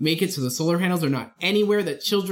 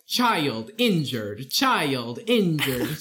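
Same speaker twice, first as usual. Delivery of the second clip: slow, lower alarm call; alarm announcement; 3 semitones lower, much slower than usual. Retold or imitated. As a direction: drone it like a station alarm. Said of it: "an alarm that you would get at a fire station".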